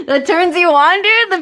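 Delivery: high, giggly incredulous question; laughing disbelief. Real, not acted. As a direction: ask it through real laughter. Laughs at his confession.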